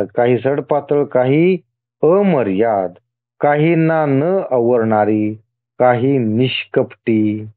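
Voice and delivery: deliberate list, a pause after each item; measured scripture reading. Acted. God listing his many forms to the devotee, measured reading. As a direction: read it out phrase by phrase. Reads scripture in God's words.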